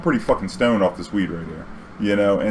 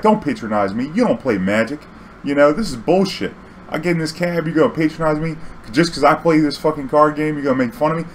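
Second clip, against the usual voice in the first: indignant passenger; 5 semitones higher than usual. Retold or imitated. Angry passenger thinks she is mocked.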